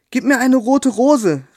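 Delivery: a small bird's hopeful call. Acted. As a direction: call out eagerly, high and drawn out. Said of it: "rief sie".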